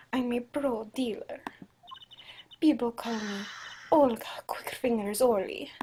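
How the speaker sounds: attempted Russian accent; Olga Orly. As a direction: brag in a makeshift Russian accent. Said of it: "I think this is Russian".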